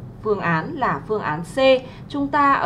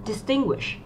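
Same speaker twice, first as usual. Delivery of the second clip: "distinguish" stressed on its middle syllable; second-syllable stress; 4 dB quieter, slower than usual. Shown as a demonstration. Teacher gives students the answer, stressing the second syllable of "distinguish". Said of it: "Chúng ta có trọng âm rơi vào âm tiết thứ hai".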